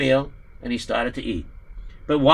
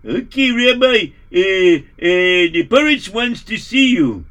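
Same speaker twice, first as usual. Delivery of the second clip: servant voice; 3 semitones higher, 6 dB louder than usual. Acted. Servant addresses rabbi.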